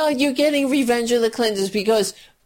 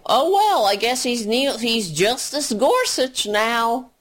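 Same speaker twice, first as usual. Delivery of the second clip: mock meek Democrats; 4 semitones higher than usual. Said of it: "They say".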